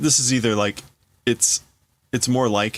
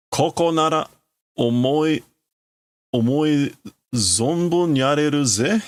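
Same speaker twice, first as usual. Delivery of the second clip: gloating boast; 5 semitones higher than usual. Acted. Tetsuo gloating to Kaneda about the open ground, boastful. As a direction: relish the wide open space.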